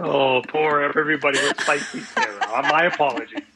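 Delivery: teasing mock apology through laughter; laughing sympathy. Real, not acted. Guest ribbing host about spicy Sarah, laughing. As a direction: chuckle as you commiserate.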